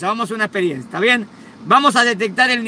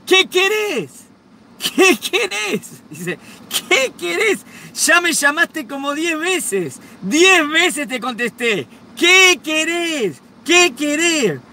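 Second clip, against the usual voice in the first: high, slow, exasperated wife voice; furious wife; 7 semitones higher, much slower than usual. Retold or imitated. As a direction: snap back at the husband, fed up. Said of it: "La esposa furiosa se da vuelta y le dice".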